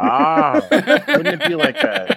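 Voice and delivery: high, laughing through words. Real, not acted. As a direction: crack up while talking. Laughing mid-line.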